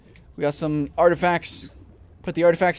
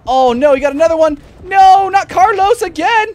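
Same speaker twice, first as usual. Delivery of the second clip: dismayed shout; 11 semitones higher, 11 dB louder than usual. Real, not acted. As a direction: yell out in dismay. Carlos eaten again.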